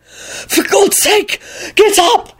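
high, strained, slow gasp. A narrator's reading. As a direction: gasp it out from under a crushing weight. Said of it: "he gasped out".

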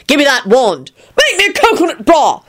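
put-on high, drunken demand; yell. A narrator's reading. Arthur wants his wand back, yelling. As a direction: yell insistently, climbing high. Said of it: "he yelled".

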